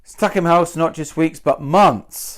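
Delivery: not and months leaned on; stress on not and months. Shown as a demonstration. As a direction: push not, then months. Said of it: "I don't like the sound of it".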